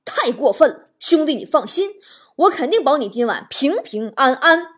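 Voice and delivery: firm, mock-heroic vow; acted righteous bravado; indignant reassurance. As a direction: play the protective buddy with emphatic words. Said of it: "他眼睛一瞪说".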